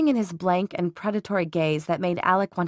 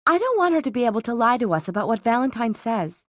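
lightly voiced insistent sister, higher; a touch of headstrong sister in a raised pitch; determined Isabel; 5 semitones higher than usual. Sister arguing with her brother to go in, lightly voiced, insistent.

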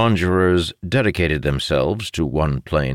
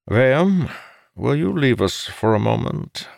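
higher-pitched, courteous request; pleasant; 10 semitones higher than usual. A narrator's reading. Father asks a companion to leave, pleasant. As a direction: ask politely, with no edge. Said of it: "asked in a pleasant tone".

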